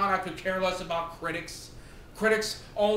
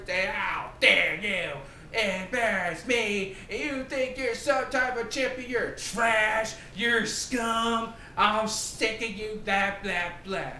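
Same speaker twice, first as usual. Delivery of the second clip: mock whiny rant; 3 semitones higher than usual. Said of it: "Coming out there".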